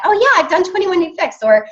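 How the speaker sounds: high, breezy dismissive reply; mock prospect brush-off. Coach mimics prospects brushing her off, breezy mock. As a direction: toss it off like it's old news. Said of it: "How many times do we get".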